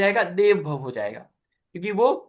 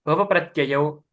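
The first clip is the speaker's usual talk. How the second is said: model recitation. Shown as a demonstration. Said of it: "एक बार और टुकड़े में फिर पूरा पढ़ेंगे".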